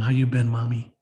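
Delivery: low, tender words to a mother; subdued, affectionate imagined greeting; talking to mom. Pretend. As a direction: speak gently, as if reunited with your mother. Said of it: "And that's my mom".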